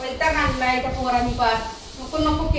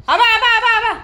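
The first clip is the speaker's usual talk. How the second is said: high, repeated mock alarm; fake alarm cry; 6 semitones higher than usual. Putting on sounds to fool the dog, fake high cries. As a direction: feign alarm in a raised pitch. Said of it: "किती नकली आवाज काढा".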